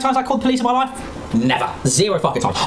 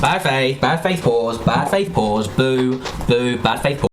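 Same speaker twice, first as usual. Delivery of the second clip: mock catchphrase; 8 semitones lower, slower than usual. Repeating catchphrase in low voice.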